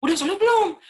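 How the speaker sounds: high, loud barked question; harsh demand. Shown as a demonstration. Parent demanding whether the child prayed, high and loud. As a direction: hit the gas right away. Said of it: "Naik, kan itu".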